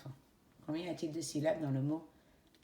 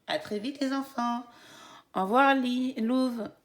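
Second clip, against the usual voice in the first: cheery goodbye; 7 semitones higher, 5 dB louder than usual. Real, not acted.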